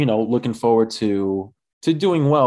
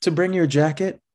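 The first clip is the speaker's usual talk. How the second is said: mom voice; 9 semitones higher than usual. Retold or imitated.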